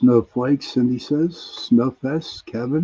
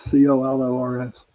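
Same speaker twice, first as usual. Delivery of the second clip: spelling it out. Real, not acted. Spelling out the misheard word.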